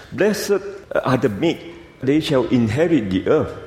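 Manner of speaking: high, rising wondering read; excited reading. Acted.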